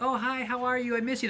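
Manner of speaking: high, sugary, friendly greeting; sweet sister-in-law. Retold or imitated. Sister-in-law greeting in English, sweetly high. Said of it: "her voice gets deeper and more".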